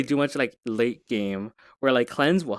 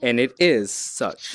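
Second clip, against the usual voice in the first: slow, solemn proclamation; mock grandiose; slower than usual. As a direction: declare it like a pompous curator. Grandiose declaration about avatar art.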